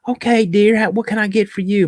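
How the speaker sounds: high, sugary waitress; sweet waitress voice. Retold or imitated. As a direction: play the chirpy Southern waitress. Waitress voiced in retold story.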